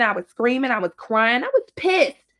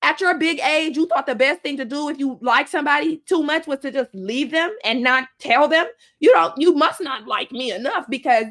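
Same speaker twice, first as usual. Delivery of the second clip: higher-pitched, indignant questioning; retold pissed-off rebuke; 4 semitones higher than usual. Scolding the man who left her, indignant. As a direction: take him to task, mildly heated. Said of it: "that pissed me off even more".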